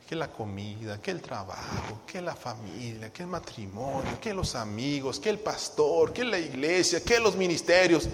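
empieza muy suave y lento, va subiendo; pensamientos que invaden. Acted. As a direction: una lista de distracciones que se acumula. List of intruding thoughts while praying. (enumeración de pensamientos intrusos)

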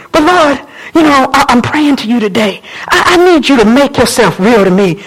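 subdued, halting personal prayer; conversational prayer to God. Acted. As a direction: talk to God as on a phone. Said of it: "When you pick it up".

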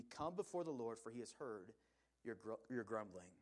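measured, formal Bible reading; scripture reading. Acted. Pastor reading Exodus to the congregation, formal reading voice. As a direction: read the passage out steadily to the church.

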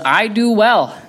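high, squeaky put-on voice of a sulking prophet; indignant Jonah. Pastor mocks Jonah defending his anger, in a high squeaky voice. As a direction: pipe it up like a petulant child insisting. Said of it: "he says".

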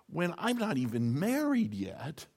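breathy unvoiced whisper; whispered aside. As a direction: drop to a whisper for Mary's question. Voicing Mary's worried question.

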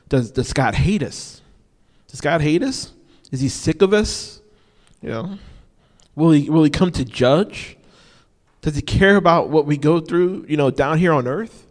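mock despair of waiting people; lightly voiced troubled crowd; anxious people. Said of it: "you can imagine what people thought".

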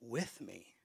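slow loud build that drops to a whisper; loud then whispered. Shown as a demonstration. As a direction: call it out, then breathe the last words. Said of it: "Say it louder".

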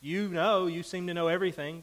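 God's sarcasm paraphrased, high and loud; sarcastic God. Retold or imitated. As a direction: rattle off the taunts. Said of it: "It's a sarcasm".

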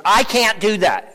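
put-on mild, drawn-out protest in an old lady's voice; little old lady. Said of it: "this little old lady came up to me".

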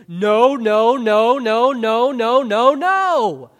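loud, high, hammered no no no; emphatic repeated no. Retold or imitated. Professor stressing in class, loud insistent no. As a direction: pound each no like the professor did. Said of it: "my Greek professor ... how he stressed it".

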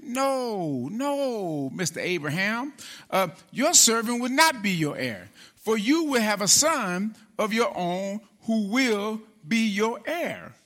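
lightly voiced gentle correction; nice, gentle God. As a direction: let Abraham down kindly, a touch hushed. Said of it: "God sounded like pretty nice".

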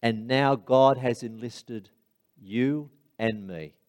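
slow, weighty proclamation; solemn preaching. Acted. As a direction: proclaim it slowly to the congregation, with long pauses. Solemn preaching close after the anecdote.

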